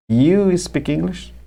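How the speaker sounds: "You speak English?" with a high rising tune, slowly; mock learner asking "You speak English?" slowly and high; wrong version. Shown as a demonstration. Teacher mimicking a learner's wrong question, high and slow. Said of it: "E aí você fala assim".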